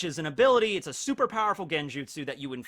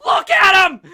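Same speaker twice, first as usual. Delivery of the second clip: much higher, loud fangirl shriek; imitating fans; 14 dB louder than usual. Mocking the fan base screaming about Shisui, shrieking. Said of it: "the whole fan base is like".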